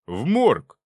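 loud, firm repeat; emphatic confirmation. Acted. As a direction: nail it down. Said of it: "кивнул наставник".

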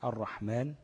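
الرحمن as ar-rahman, no L; lam merged into ra. Shown as a demonstration. Teacher giving another example, الرحمن with doubled ر. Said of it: "لا تنطق فيها اللام".

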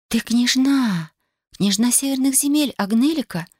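it suddenly dawns on her who you are; stunned realisation. A narrator's reading. Katya recognises the princess, crying out in shock.

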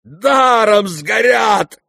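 high, loud, slow shout; roaring crowd. Acted. The guests all around, roaring in dismay. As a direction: bellow it in outrage. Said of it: "ревели со всех сторон".

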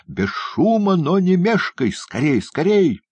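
high-pitched, loud urging; Феджин frantic cry. A narrator's reading. Prisoner hurrying the boy past the guards, frantic cry. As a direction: cry out in desperate haste. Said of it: "крикнул Феджин".

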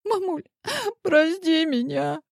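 a guilty daughter bawling an apology; wailing. A narrator's reading. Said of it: "проревела виновата Диана".

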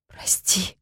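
soft breathy whisper of apology; frightened whispered plea. Acted. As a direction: whisper it, barely voiced. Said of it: "прошептала".

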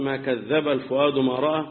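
كذب said kadh-dhaba, with a doubled consonant; doubled dhal in كذب. Shown as a demonstration. Teacher explaining a variant recitation, كذب with doubled dhal. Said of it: "ما كذب بالتشديد".

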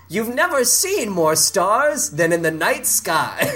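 mock-grand movie slogan; movie tagline. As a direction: pitch it like a film trailer, drawn out. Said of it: "And the tagline is".

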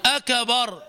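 "أكبر" as "akabar"; voweled K. Shown as a demonstration. Teacher comparing bouncing to an open letter, voweled K. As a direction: add a short A after the ك of أكبر. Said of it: "القلقلة قريبة من فتح الحرف".

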